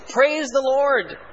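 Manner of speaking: high, loud, slow joyful cry; exuberant exclamation. Retold or imitated. New believer moved by the service, exclaiming loudly. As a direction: burst out praising, stretched out. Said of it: "or exclaimed".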